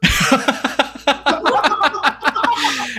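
high-pitched giggle in character; high character laugh. Acted. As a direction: cackle up high as the tinkerer.

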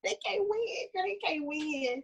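whispered doom, drawn out; hushed, slow aside. Retold or imitated. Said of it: "I said".

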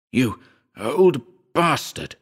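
drawn-out, spiteful name-calling; venomous curse. A narrator's reading. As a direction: spit out each word slowly, pitch swooping up. Narrator curses at the urn.

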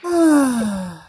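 long, high mock sigh; exaggerated high exhaled noise; imitated weird sigh. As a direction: imitate his odd drawn-out sigh. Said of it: "He does this weird shit when he does that".

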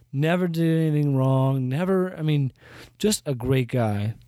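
dry mock praise; sarcastic. Real, not acted. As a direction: praise him with heavy sarcasm. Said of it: "you can hear the sarcasm in my voice".

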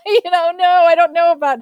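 fast, high flustered rush; excited fluster. Retold or imitated. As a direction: gush out in a nervous rush. Excited self-doubt recalled.

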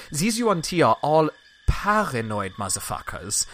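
a hint of a blunt gossipy woman, lightly voiced; blunt NPC woman. GM voicing the woman calling the Yuan-Ti paranoid, matter-of-fact. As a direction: drop the swear matter-of-factly. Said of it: "she says it just like that".

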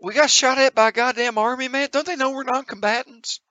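high-pitched, incredulous protest; indignant outrage. Acted. Character learns an army shot at noncombatants, high indignant outburst. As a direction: squawk it in acted disbelief.

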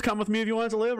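high-pitched Arnold catchphrase take; Arnold impression. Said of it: "Is it the Arnold".

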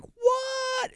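very high, drawn-out mock-shocked squeal; retold shock. Retelling hearing the score, high mock-shocked squeal. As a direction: squeal it high, imitating disbelief. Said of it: "And I was like".

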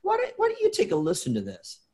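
lightly offering a tape with kindness; kind, loving offer. Retold or imitated. Mentor handing Wynn a tape, kindly and lovingly. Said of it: "kindly and lovingly said".

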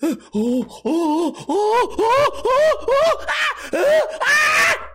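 hammed-up squealing sneeze wind-up; imitated girl's sneeze. Girls sneezing at school, cartoonish high squeals. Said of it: "chicks that would just be like".

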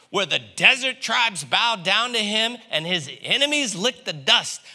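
loud, high, fervent crowd voice; fired-up crowd. Retold or imitated. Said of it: "they're like".

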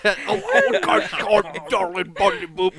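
a mock British accent with a lilt. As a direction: toss off a silly British accent. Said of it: "Your British accent's coming out".

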